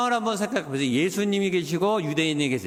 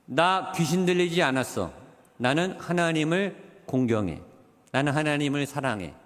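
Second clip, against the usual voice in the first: with composure; 3 semitones lower than usual. Retold or imitated. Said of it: "평정심을 가지고".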